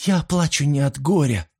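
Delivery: mild sob. A narrator's reading. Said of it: "всхлипнула Сильвия".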